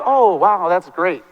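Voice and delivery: imitating insincere politeness; sarcastic. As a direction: feign being impressed, without meaning it. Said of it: "And I know sarcasm".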